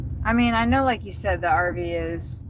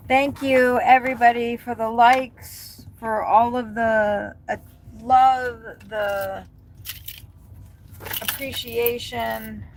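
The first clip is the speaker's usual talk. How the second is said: grateful thanks; 3 semitones higher than usual. Real, not acted. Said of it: "I am super grateful".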